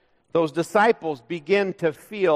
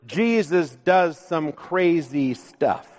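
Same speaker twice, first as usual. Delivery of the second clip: joking title. Shown as a demonstration. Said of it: "I joked that I might title the sermon".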